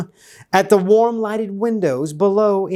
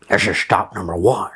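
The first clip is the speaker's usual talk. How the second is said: Grinchy hiss; 9 semitones lower, faster than usual. A narrator's reading. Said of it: "Grinchy Claus hissed".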